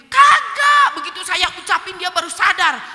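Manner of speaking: high, loud outburst; emphatic denial. Real, not acted. Preacher insisting the friend hadn't realised, emphatic denial. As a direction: shout the answer to your own question. Emphatic answer to own question.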